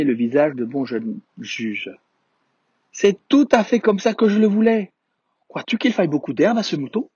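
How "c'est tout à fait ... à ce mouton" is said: high, delighted little prince; light up like a child who got his wish. A narrator's reading. Little prince thrilled with the boxed sheep, delighted.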